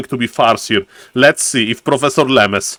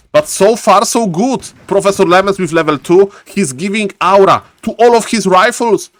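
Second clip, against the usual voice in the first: higher-pitched, animated match commentary; live play-by-play; 4 semitones higher than usual. Real, not acted. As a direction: call each development with rising urgency.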